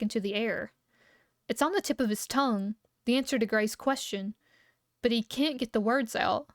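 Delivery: steady read-aloud narration voice; story narration. Acted. Streamer reading a story to her chat, calm narration. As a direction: read the tale to your viewers.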